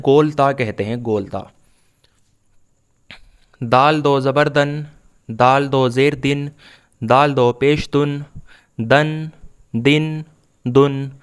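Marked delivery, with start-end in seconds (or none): 3.6-11.1 measured, evenly chanted spelling-out of syllables; teacher's steady recitation drill; Quran primer drill. Shown as a demonstration. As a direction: recite each letter and vowel name, then the syllable, pausing for learners.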